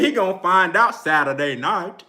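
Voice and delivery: amused, light imitation of a UK accent; Kell Brook's UK accent. Fan repeats a boxer's taunt, light mock UK accent. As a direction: lightly mimic a country UK accent. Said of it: "Kell Brook got a fun-ass accent".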